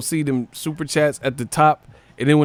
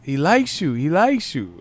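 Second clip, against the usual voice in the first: mock movie quote; 8 semitones higher than usual. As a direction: quote the movie in a lifted, put-on voice. Mimics lines from Selena film.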